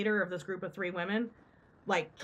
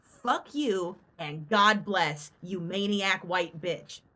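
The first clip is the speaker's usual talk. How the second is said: slow parting line; much slower than usual. Retold or imitated. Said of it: "And then she says".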